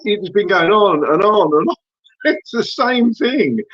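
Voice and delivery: laughing in disbelief, voice rising; exasperated laughing. Real, not acted. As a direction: laugh helplessly through the frustration. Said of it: "I'm laughing because it's like".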